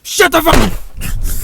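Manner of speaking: slow, drawn-out angry scream; furious shout. Acted. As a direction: bellow it slowly. Yelled in slow fury.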